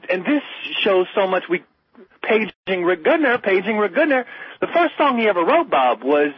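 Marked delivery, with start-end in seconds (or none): 2.2-4.2 mock paging call. Host jokingly pages someone mid-discussion, mock paging call. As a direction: call out a name like a pager.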